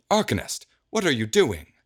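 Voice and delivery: high, chasing yell; yelling after her. Acted. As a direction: call out sharply as he runs after her.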